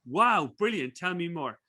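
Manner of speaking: mildly excited retold wow; excited reaction. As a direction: react as if delighted by the news. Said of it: "really excited".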